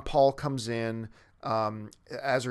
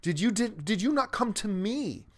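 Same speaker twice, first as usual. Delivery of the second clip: higher-pitched wounded plea; hurt, demanding; 5 semitones higher than usual. Retold or imitated. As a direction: act out a pained, rejected demand for an answer. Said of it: "Dick wants to know".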